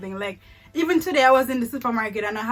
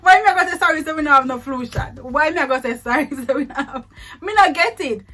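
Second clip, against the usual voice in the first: indignant; 4 semitones higher, 6 dB louder, faster than usual. Real, not acted. Indignant laughing about apologizing.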